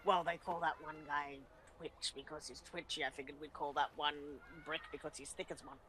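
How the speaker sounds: murmured under the breath; quietly. Acted. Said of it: "quietly to the Dragonborn".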